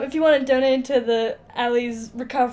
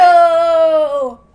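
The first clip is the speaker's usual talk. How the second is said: loud, punchy exclamation; excited yo; 3 semitones higher, 10 dB louder than usual. Real, not acted. Co-host hearing the moon-wife logic, excited shout. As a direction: burst out in delight.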